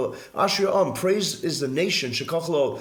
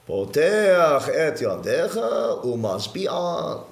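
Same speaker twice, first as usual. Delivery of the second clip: very slow Sephardic "Poteach et yadecha umasbi'a", with a t in Poteach; Sephardic pronunciation; much slower than usual. Retold or imitated. Rabbi showing how Sephardim say the verse, slow Sephardic. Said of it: "they go like this".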